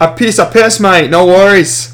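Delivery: accidental Irish accent, slightly hammed-up. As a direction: lilt it like a muddled Irish accent. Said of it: "I said it in an Irish accent".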